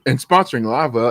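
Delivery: talking through hiccups; hiccuping. Real, not acted. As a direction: hiccups breaking up the words. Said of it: "as I go through my hiccups".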